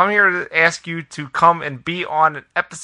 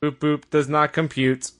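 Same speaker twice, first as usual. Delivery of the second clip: robot voice. Pretend. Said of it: "Owen's already half robot now".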